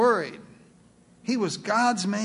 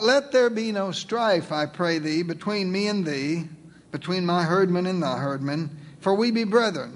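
scripture reading. Shown as a demonstration. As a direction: read it out solemnly to the congregation. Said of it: "Abram speaking to Lot".

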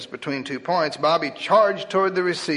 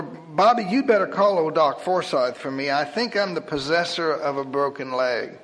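quivering voice. Acted. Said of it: "in a voice that was now beginning to quiver".

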